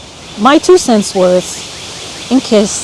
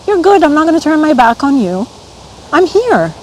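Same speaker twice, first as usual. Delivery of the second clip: raised pitch, full of real feeling; heartfelt, higher-pitched self-reassurance; getting emotional; 5 semitones higher than usual. Real, not acted. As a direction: comfort yourself while welling up with emotion. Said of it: "I'm getting emotional".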